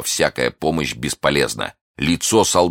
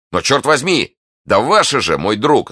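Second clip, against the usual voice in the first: higher-pitched, impatient retort; exasperated exclamation; 9 semitones higher, 5 dB louder than usual. A narrator's reading. D'Artagnan answering Athos about the wine, exasperated. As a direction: protest with emphatic energy.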